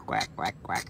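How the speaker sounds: soft breathy duck quacks; whispered quacks. Real, not acted. Woman tries a soft whispered duck call. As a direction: try a quiet duck call. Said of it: "Do I sound like a duck?".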